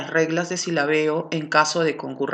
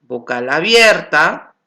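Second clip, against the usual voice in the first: vocal abierta slow and louder, weight on abierta; stressed term; 4 dB louder than usual. Shown as a demonstration. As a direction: lean on abierta. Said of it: "aquí tenemos vocal cerrada".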